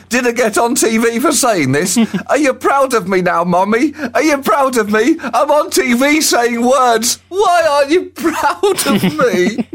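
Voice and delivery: high, whining shout for Mummy; whiny screaming child. Retold or imitated. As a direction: shriek like a needy little boy. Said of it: "before screaming".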